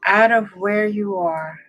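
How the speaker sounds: unhurried meditation guide, long pauses between phrases; guided meditation. Real, not acted. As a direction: ease the listener into relaxing, phrase by phrase.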